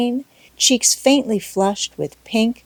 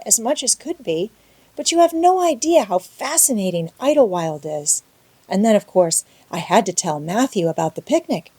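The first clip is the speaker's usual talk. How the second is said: put-on pleading girl; 3 semitones higher than usual. Anne explaining, pleading.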